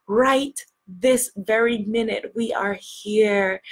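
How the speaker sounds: slow, measured guiding voice; gratitude meditation. Real, not acted. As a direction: guide them gently into gratitude, with drawn-out phrases.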